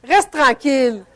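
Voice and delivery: slow, firm command to yourself; slow firm self-talk. Shown as a demonstration. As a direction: tell your inner voice to settle, slowly. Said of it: "On y parle à petite voix".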